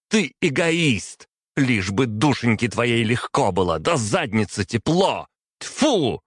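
нарастая до крика, всё выше и громче; выплеснуть ярость; яростно. A narrator's reading. Принцесса в ярости на отца. (дочь в ярости кричит на отца)

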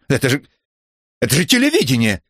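high loud outraged cry; shouting. Acted. Trapped presenter yelling about the broadcast, high loud shout. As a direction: scream it like it's obvious. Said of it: "закричал он".

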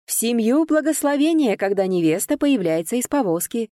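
high-pitched ceremonial cry; shouting announcer. A narrator's reading. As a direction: proclaim it to the wedding crowd. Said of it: "закричал распорядитель свадьбы". (громко, как распорядитель свадьбы)

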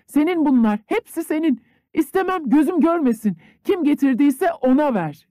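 high, loud angry snap; angry maid. A narrator's reading. Maid angrily telling the peasant to take the money, high and loud. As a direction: fling the words at him. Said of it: "Dunyaşa öfkelenerek".

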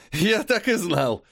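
slow, high manic cry; crazed, half laughing; asylum patient. Acted. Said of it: "безумный смех".

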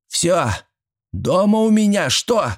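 put-on high, insistent old-woman voice; granny's challenge. A narrator's reading. Old woman demands they answer about her home, insistent. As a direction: throw the question out sharply, pitch soaring.

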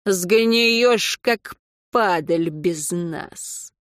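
slow spiteful hiss; mustache twirling villain. Acted. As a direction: hiss it out venomously, slowly. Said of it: "ехидно прошипел". (ехидное шипение)

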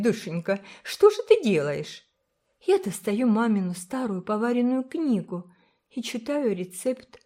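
put-on high child's voice telling a secret; an earnest girl confiding about doughnuts; chatty little girl. A narrator's reading. (высокий детский голос, доверчиво и оживлённо)

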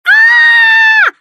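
piercing high terrified shriek; shrill scream. A narrator's reading. Girl shrieking at the barking dog, terrified scream. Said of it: "визжала невидимая из комнаты Джессика".

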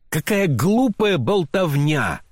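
woman scorns his talk with a high slow cry; exclaiming. A narrator's reading. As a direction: throw the words back at him. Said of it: "вскричала она".

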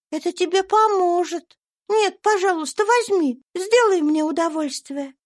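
put-on high, bright child's voice; little girl Eva. A narrator's reading. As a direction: speak as a sweet little girl. (тонкий детский голосок)

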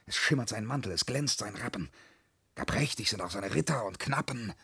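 low, soft verse recital; quietly lost in a fantasy; entranced storytelling. Acted. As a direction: spin a daydream to oneself, hushed. Daydream told in verse.

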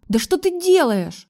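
high indignant cry; outraged, pitched high; indignant shout. A narrator's reading. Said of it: "с возмущением крикнув".

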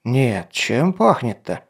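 slow puzzled captain; wrinkling nose. Acted. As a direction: sniff and frown while asking. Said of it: "сморщившись".

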